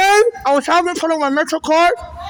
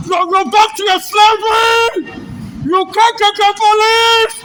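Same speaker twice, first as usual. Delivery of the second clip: furious at being laughed at; angry shouting; slower than usual. Real, not acted. Shouting that police are laughing.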